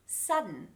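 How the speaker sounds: "sudden" with D held straight into N; no vowel between D and N in "sudden"; silent D. Shown as a demonstration. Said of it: "is if a D is followed by an N".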